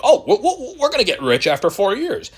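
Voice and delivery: high mocking voice with laughter; laughing mockery. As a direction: laugh through a silly impression of the crowd. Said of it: "everyone was like".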